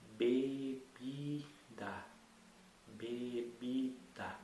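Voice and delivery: "bebida" stretched out very slowly, syllable by syllable. Shown as a demonstration. Teacher sounding out a word for a child, very slow. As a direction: draw out "bebida" so each syllable is heard. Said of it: "você agora vai repetir isso".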